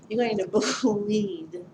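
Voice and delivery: laughing nervously mid-sentence; a jittery little laugh through the words. Real, not acted. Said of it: "it's more of a nervous laugh".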